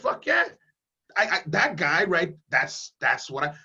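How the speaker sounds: a hint of a fired-up crowd member cheering; mock crowd roar, quickly fading. Voicing the rally crowd he fires up, mildly excited cheer. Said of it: "they're gonna be like".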